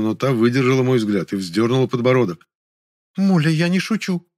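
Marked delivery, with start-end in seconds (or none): 3.2-4.3 grumpy hiss. A narrator's reading. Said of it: "сварливо прошипела она".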